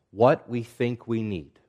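"think" drawn out and emphasized; stress on think. Real, not acted. Preacher qualifying what we pray for, stress on "think". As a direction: lean slowly on the word "think". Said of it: "Emphasis on the word think".

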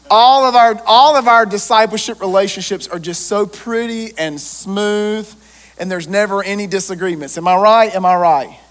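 loud, ironic sweep of a claim; sarcasm. Acted. Preacher teasing the congregation about smooth relationships, sarcastic and loud. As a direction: say it dripping with irony.

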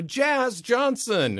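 a slow, drawn-out "Jazz Johnson", high and a bit loud; plain matter-of-fact naming. Retold or imitated. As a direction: say the name like staff who know him well. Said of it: "they go".

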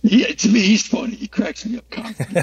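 high-pitched, talking through laughter; amused, laughing. Real, not acted. Agreeing with a friend that God is funny, amused and laughing.

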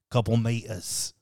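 put-on slow, botched Australian accent; a slightly off Australian attempt, drawn out; Steve Irwin. Host botches the wildlife distance, shaky-quality Australian accent. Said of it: "That was a little bit shitty".

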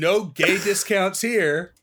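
slow flat robotic voice. Retold or imitated. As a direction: deliver it like a slow machine. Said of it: "it's like a robot voice".

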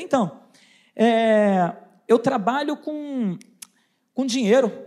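low, halting hesitation with fillers; retold stammering. Nervous salesman explaining his job to a huge man, stammering. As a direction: stall and grope for the next word.

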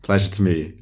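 pleasantry in a mock-thick Welsh accent. Player playing colleague introduced to the father, Welsh accent. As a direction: put on a would-be convincing Welsh accent. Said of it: "in a thick, very convincing Welsh accent".

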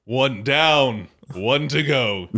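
put-on old New England accent. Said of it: "Wasn't quite American enough".

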